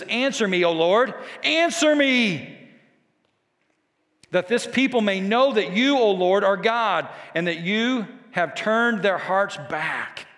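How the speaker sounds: bold prayer. Retold or imitated. Elijah praying before the people for God to answer, bold. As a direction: call on God boldly, stretching the second appeal. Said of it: "Did you see this bold prayer?".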